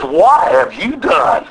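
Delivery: slow, weighty question; God confronting. Retold or imitated. God stops Eve's talk to question her, slow and grave. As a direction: stop and ask it slowly, word by word. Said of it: "God instead stops and says".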